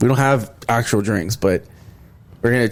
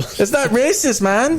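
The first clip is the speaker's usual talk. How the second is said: high defensive protest; 11 semitones higher, slower than usual. Real, not acted. Protesting while laughing.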